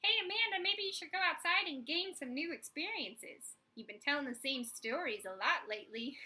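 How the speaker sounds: 1 subconscious voice. Retold or imitated. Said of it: "a very small subconscious that's like".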